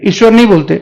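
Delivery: ईश्वर with a short, clipped opening इ; wrong short vowel. Shown as a demonstration. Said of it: "गलत है वो". (ईश्वर का ई छोटा बोलना गलत)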